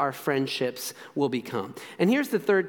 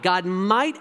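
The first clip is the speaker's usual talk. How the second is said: slow, deliberate weight on "might"; stress on might. Real, not acted. Preacher repeating his qualifier, firm stress on "might". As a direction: hold back and press the word "might". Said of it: "I highly emphasize the word might".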